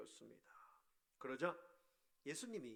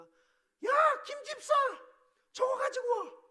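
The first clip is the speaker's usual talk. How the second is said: loud, high, bossy yell across the room; shouting rudely; 12 dB louder, slower than usual. Shown as a demonstration. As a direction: bark an order at a church member. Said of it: "막 이렇게 소리치는". (교인에게 무례하게 소리치는 높은 고함)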